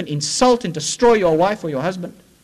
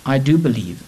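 pleading. Retold or imitated. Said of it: "And the man said to him".

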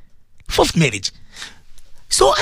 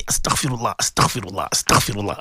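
astaghfirullah sinking lower and softer, ending in a whisper; quiet dhikr; 12 semitones lower, 5 dB quieter than usual. Shown as a demonstration. Preacher showing a grieving youngster how to whisper astaghfirullah. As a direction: murmur it like private prayer fading out. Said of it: "even if you do it one hundred times a day".

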